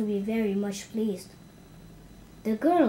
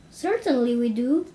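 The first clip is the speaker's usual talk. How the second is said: yelled; 5 dB louder than usual. Acted. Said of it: "yelled one and all".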